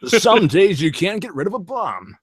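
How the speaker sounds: campy Adam West quote; Batman voice. Pretend. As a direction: deliver it as old Batman.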